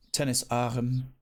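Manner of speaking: "Tennis arm" said slowly, each word spelled out; slow, deliberate "Tennis arm"; slow explanatory. Shown as a demonstration. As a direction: teach the local term slowly. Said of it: "they call it over here".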